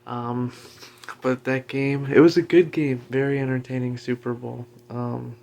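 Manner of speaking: talking with a retainer in; mumbly words around a retainer. Real, not acted. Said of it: "I've got my retainer in, so I can't enunciate too well".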